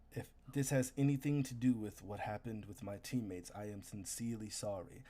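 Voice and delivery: kneel and apologize gravely; sincere warrior apology. Acted. GM voices the kneeling hunter.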